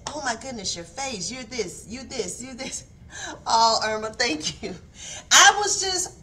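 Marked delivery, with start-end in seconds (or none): 0.1-2.8 soft mock inner critic; nitpicking. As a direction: imitate picking at oneself under your voice, softly. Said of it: "nitpick about myself".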